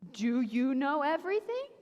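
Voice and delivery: mocking rise on "everything"; sarcastic question. God needling Job, sarcastic rise. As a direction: tease with "everything?" lifted up. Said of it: "a little sarcastic".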